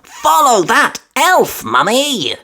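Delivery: excited cry. A narrator's reading. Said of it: "she cried".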